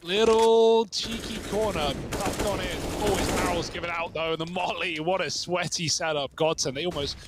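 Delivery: excited esports play-by-play; live play-by-play. Acted. Caster calling the live round for viewers, play-by-play. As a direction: call the round as it happens.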